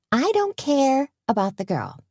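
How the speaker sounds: high, tense cut-in without extra volume; hissed anger. A narrator's reading. Wife interrupting husband's excuse about a girl, hissing. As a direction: cut him off, pitched high, mildly fierce. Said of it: "Tony hissed".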